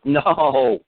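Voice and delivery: long high mock scream; retold scream. Speaker objecting to placing witness on stand, mock scream. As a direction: wail the word out high and drawn out. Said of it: "And I screamed".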